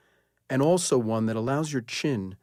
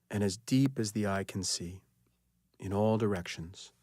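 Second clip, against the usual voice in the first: unhurried relaxation guidance with long pauses; guided meditation. Acted. Leads guided sleep relaxation.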